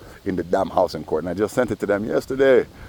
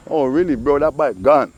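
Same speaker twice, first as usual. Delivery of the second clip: excited; 7 semitones higher, 6 dB louder than usual. Shown as a demonstration.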